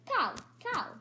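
high squeaky creature call of cow, cow; a small critter's high call; pet cupcake's cry. Acted. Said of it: "he's always gonna say cow, cow".

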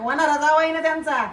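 calls it out so the neighbours hear; loud boast. Acted. (इमारतीला ऐकू जावं म्हणून मोठ्याने सांगणे)

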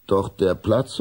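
ordinary delivery

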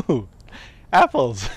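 ordinary talk, nothing marked

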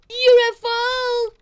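high, loud, drawn-out cry; exaggerated rapture. Player praising the dino carnival, exaggerated rapture. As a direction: belt it out slowly in wonder.

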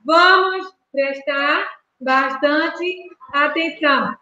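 slow, word by word dictation. Shown as a demonstration. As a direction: spell each word out slowly for counting. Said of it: "Conta nos dedos as palavras".

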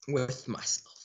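a lightly different second voice; playful self-reply in a slightly shifted voice; answering self. Pretend. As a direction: echo yourself as another person. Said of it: "might sound like I'm having a conversation".

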